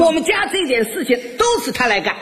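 high, singsong praise; gushing mother-in-law. Retold or imitated. Mother-in-law praises son-in-law to neighbours, high gushing voice. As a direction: proclaim it to the crowd in a high put-on voice. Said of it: "一边夸我".

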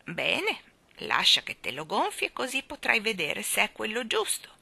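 put-on trembling old woman. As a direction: scold them like a frail old woman full of passion.

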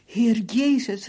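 slow, high, loud plea; loud cry. A narrator's reading. Beaten prisoner calling on God for protection, loud drawn-out cry. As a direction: cry out loudly for help. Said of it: "riep ik luid".

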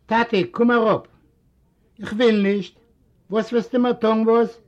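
lightly voiced family quarrel; voiced characters. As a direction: lift the voice for the characters. Story figures in dialogue.

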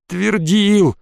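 stretched, mildly sneering echo; grudging scornful echo. A narrator's reading. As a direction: throw the word back with scorn. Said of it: "процедил он". (процедить с издёвкой)

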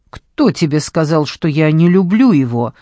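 usual speaking voice

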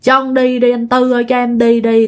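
lightly voiced plea, held on a level tone; retold begging. Child begging to be let go, retold plea. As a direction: plead mildly, drawing the words out evenly. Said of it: "nó xin, nó nói rằng".

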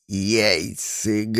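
low, slow hissed-out word; old man gritting out an insult; through gritted teeth. Acted. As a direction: spit it through clenched teeth. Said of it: "процедил сквозь несуществующие зубы".

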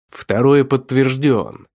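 slow, pleased call-out; pleased shout. Acted. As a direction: announce it with relish. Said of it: "довольно выкрикнул охотник".

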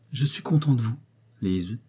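gently approving, slightly softened. A narrator's reading. Prince to his wife, content with her, softened voice. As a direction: let the voice soften, dropping on the name. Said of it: "dit une voix adoucie".

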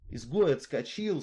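usual speaking voice

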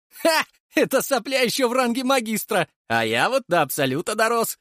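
high, boastful and cocky; proud boast. A narrator's reading. Leshy brags to his friends about his rank, proud and high. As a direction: crow about it, chest out. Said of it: "гордо заявил Леший".

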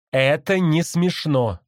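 high, loud, slow parrot echo; parrot mimicking. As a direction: copy it like a parrot repeating its owner. Parrot copies the man.

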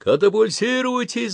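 high, loud command yell; yelled order. Acted. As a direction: scream the order to bail out. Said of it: "заорал он".

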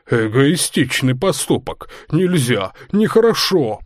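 lightly voiced grunting drunk; grunting pig voice. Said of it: "похрюкивал свин".

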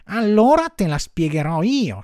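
high, loud marmot voice; high-pitched animal know-it-all; explaining marmot. A narrator's reading. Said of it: "soggiunse la marmottina".

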